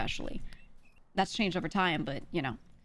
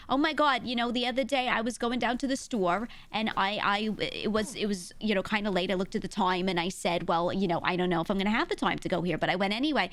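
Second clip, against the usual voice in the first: put-on lively, thick Brooklyn accent, louder than usual; 2 semitones higher, 3 dB louder than usual. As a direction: put on a young Brooklynite's accent, chatty storytelling. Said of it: "I know people that talk like that".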